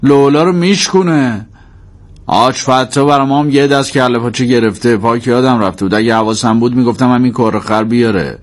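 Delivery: mild complaint after the door is kicked; a touch of fatherly exasperation; grumbling father. Acted.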